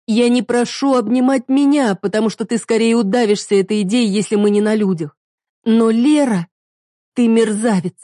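wife accusing her partner; hurt accusation. Acted. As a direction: let the pain break through.

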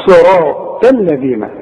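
"الذين" with light l and interdental dh; tongue between teeth for dh in "الذين"; tongue-out dhal. Shown as a demonstration. Teacher coaches the student, interdental dh in "الذين". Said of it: "وطلع لسانك في الذال".

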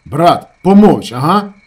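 very loud, slow on помовч; angry order. A narrator's reading. Shamil orders his brother to shut up, angry. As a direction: shut him up hard.

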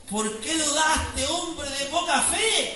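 slow, measured, gently stern rebuke; Jesus rebuking Peter. Retold or imitated. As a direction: draw each word out like a patient master. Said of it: "el Señor lo agarra".

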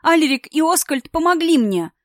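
high, loud urgent pleading; tearful insistence. A narrator's reading. Daughter crying out to father that they helped her, high and urgent. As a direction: make him listen through tears.

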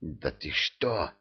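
soft, slow vampire hiss. Acted. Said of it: "прошипел вампир".

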